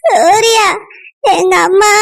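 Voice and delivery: tearful, choked voice calling his name; crying. Acted. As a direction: sob out the name to him. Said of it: "ஏன் அழுகுற?".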